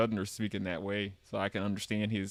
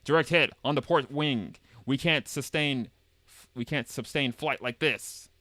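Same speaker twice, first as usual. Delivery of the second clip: higher, louder alarmed pilot; urgent battle report; 3 semitones higher, 3 dB louder than usual. Acted. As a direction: call out the danger mid-flight. Dramatic game dialogue read aloud.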